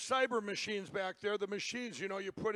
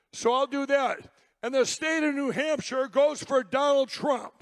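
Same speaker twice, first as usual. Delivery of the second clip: triumphant rally shout; 3 semitones higher, 8 dB louder than usual. Real, not acted. Speaker shouts the reveal to a cheering crowd, triumphant. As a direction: proclaim it like a victory to the crowd.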